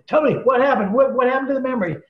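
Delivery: high, loud, urgent demand; retold scream. Wife cutting in on a demo, high and insistent. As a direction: cut in insisting on an answer. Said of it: "his wife screams in".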